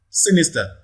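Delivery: sinister with SIN prominent; stress on first syllable. Shown as a demonstration. Teacher models option A, sinister stressed on SIN. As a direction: hit the first syllable of sinister, then fall. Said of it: "first syllable receives the primary stress".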